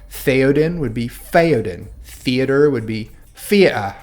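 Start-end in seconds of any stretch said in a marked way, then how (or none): 0.1-0.8 Cockney accent, "Theoden" said slowly as "Feoden"; Cockney demo, start "Theoden" with an F. Shown as a demonstration. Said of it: "pronounce it like an F". 2.0-2.7 Cockney accent, "theater" said slowly as "feater"; Cockney demo, start "theater" with an F. Shown as a demonstration. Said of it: "pronounce it like an F".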